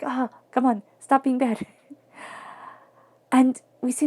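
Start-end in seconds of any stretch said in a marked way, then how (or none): 0.0-1.7 lightly exasperated telling-off of yourself; playful, slightly raised self-reproach; mock self-scolding. Acted self-scolding after eating cookie.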